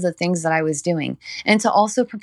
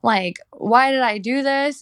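upset in tears; 4 semitones higher than usual. Retold or imitated. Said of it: "Like, I was in tears".

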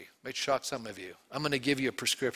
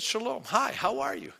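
casual greeting; 7 semitones higher than usual. Retold or imitated. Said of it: "the ordinary greeting".

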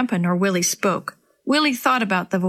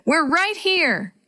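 higher and slow call; calling back; 8 semitones higher, much slower than usual. A narrator's reading. Boy calls out location to rescuers, slow and high. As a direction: stretch it out so rescuers hear. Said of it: "Willie called back".

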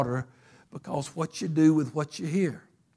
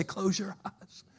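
slow, soft, calm "Close your eyes"; whisper-gentle, slow command; 4 semitones higher, 7 dB quieter, slower than usual. Retold or imitated. Pastor repeating God's calm words to the congregation, soft and slow. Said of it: "just the calmest voice".

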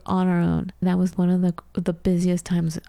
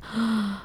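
stressed gasp; 3 semitones higher, 4 dB quieter than usual. Retold or imitated. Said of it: "I remember feeling the stress and going".

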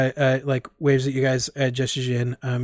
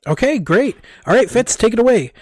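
higher and louder, bright handoff to Fitz; peppy coach Dan; 9 semitones higher, 7 dB louder than usual. Acted. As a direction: toss it over to Fitz with a beaming call. GM voices Dan handing over.

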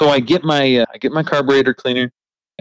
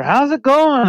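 very high cheery greeting; upbeat sing-song how's it going; chipper Rooster; slower than usual. Retold or imitated. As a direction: toss it out all sunny. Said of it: "he's always chipper".

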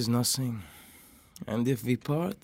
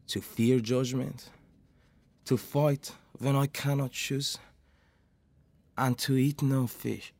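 measured Shakespearean recitation; a player reciting a speech; recited verse. Acted. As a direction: deliver the speech line by line.

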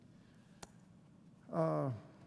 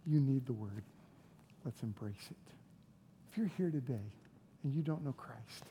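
soft pastoral appeal; 5 semitones lower, 9 dB quieter than usual. Real, not acted. Soft personal appeal to congregation.

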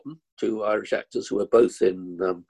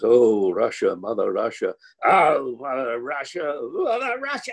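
mock sentimental emoting; 3 semitones higher than usual. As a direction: overblown stage sighing for Mother Russia. English actors hamming Russian sentiment.

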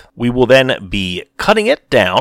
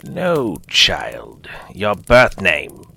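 sternly; much slower than usual. Acted. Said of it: "the old woman said sternly".

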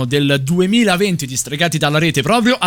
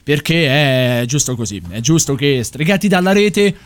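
serious; 2 semitones lower than usual. Real, not acted. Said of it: "ci facciamo un attimino seri".

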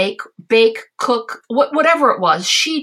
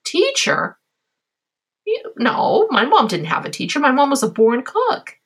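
incredulous; 5 semitones higher than usual. Retold or imitated. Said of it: "And I'm thinking".

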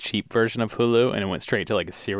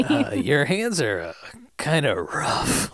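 mock-awkward hesitation; 2 semitones higher, slower than usual. Mocks the boy's awkward line.

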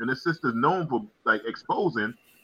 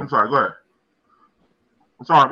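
mouth full; 7 dB louder, faster than usual. Real, not acted. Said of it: "I'm eating".

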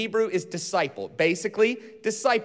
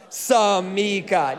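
Samika with more energy and gusto, stretched slowly; a bit more energy; much slower than usual. Shown as a demonstration. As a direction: pump up Samika a notch. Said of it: "let's raise our energy about twenty percent".

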